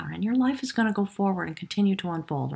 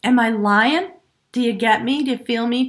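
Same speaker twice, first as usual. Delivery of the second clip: "Am I lying?" tossed off, cheeky and a bit louder; snarky excited Spirit; 3 semitones higher, 5 dB louder than usual. Pretend. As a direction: tease them like a sassy, thrilled spirit. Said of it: "So excited, Snarky".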